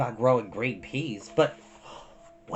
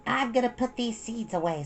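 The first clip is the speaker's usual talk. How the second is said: put-on high, pleading child voice; two sisters arguing, high; young girls' voices; 9 semitones higher than usual. A narrator's reading. Mei voiced.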